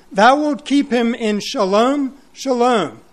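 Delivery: "shalom, shalom" slow, each one weighted; stressed repeated shalom. Shown as a demonstration. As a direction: lean on both "shalom". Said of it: "the word peace repeated twice".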